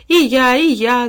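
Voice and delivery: high, loud eager chiming in; excited me-too cry; gleeful. A narrator's reading. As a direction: join in with childish delight. Sister joins in, clapping.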